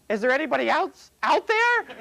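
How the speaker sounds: high, loud desperate call. Retold or imitated. The man refuses God's advice and calls out for anyone else. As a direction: yell it up, hoping for someone else.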